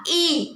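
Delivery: "ई" as a held ee sound; vowel pronunciation demo. Shown as a demonstration. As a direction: model "ई" alone for pupils. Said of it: "उसका pronounce क्या होगा?". ("ई" की आवाज़ साफ़ और लंबी)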